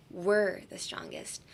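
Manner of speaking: WE'RE stretched for emphasis; long, weighted WE'RE; stress on WE'RE. Shown as a demonstration. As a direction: lean on WE'RE, slowly. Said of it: "focus on us".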